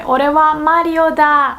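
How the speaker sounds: lightly acted impostor in Japanese; drawn-out playacted claim; Wario. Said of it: "The Wario would say".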